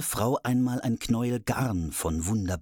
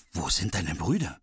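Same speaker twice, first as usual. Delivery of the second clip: king's voice; 4 semitones lower than usual. Acted. Father asks about sons.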